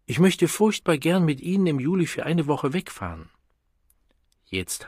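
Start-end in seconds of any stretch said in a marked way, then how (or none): 0.0-3.3 higher and brighter, pointedly friendly for all to hear; overly warm invitation, announced to the lift; pointedly cordial, aloud. Acted. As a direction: say it loud so the others hear how eager she is. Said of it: "mit betonter Herzlichkeit ergänzte sie laut".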